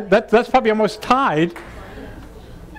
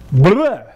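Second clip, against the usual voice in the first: a short loud blah; demo nonsense sound; 4 dB louder than usual. Shown as a demonstration. Teacher demonstrating a sound to the class, a short loud blah. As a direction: blurt out blah. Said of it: "It could be".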